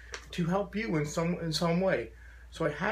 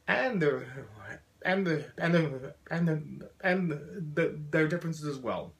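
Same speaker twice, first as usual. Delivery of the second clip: looping on the same two words with halts; profound stutter. Real, not acted. Speaker urging listeners to love differences, stuttering. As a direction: repeat the lead-in until the phrase breaks free. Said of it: "as someone with a very profound stutter".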